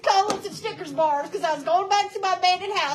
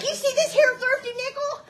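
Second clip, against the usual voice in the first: hustler's pitch; 9 semitones higher than usual. Retold or imitated. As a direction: sell it like a slick hustler. Same line repeated, voiced.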